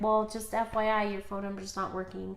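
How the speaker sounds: understated, settled delivery; calmed down. Retold or imitated. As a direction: re-enact a polite heads-up after cooling off. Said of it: "when I calmed down".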